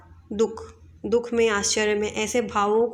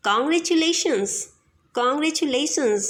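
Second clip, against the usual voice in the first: slow, bright congratulations; congratulating; 3 semitones higher, much slower than usual. Shown as a demonstration. Teacher congratulating someone. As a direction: congratulate warmly. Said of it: "ऐसे बोलते हैं ना".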